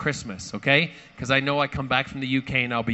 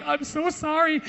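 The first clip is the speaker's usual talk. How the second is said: much higher, small sorry voice; sheepish apology; 13 semitones higher, slower than usual. Retold or imitated. Imitating the flight attendant apologizing, high and sheepish. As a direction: mimic her embarrassed apology.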